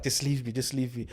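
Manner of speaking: mock faint plea. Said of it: "And I was like".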